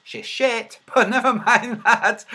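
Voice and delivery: laughing. Real, not acted. Laughs at her own insult.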